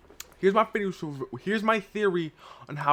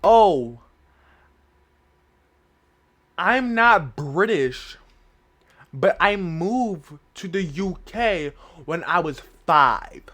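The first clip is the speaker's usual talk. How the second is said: slow, halting mock confession; imagined reveal; 5 dB louder, slower than usual. Imitating the non-British person's reveal, slow mock confession. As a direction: draw the reveal out with long pauses. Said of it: "I think it's gonna be like this".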